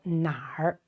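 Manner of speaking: 哪儿 with a curled r ending; er accent. Shown as a demonstration. Teacher showing standard Mandarin accent, 哪儿 with er ending. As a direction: say 哪儿 with the Mandarin er colouring. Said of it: "notice this er accent".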